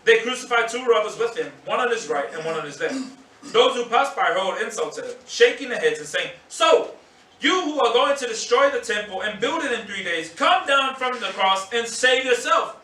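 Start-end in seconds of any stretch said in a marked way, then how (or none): 6.5-12.8 mocking taunt. Passersby jeering at Jesus on the cross, mocking taunt.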